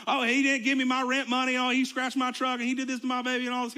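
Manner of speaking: loud, high-pitched complaining in a put-on accent; hammed-up TV court litigant accent, piling up grievances; put-on plaintiff accent. Plaintiff airing petty grievances on a judge show, hammed-up accent. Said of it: "I don't know why I'm doing that accent".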